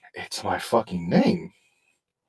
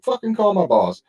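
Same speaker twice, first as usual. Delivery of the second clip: retold angry retort; 10 semitones higher, 4 dB louder than usual. Retold heated quarrel.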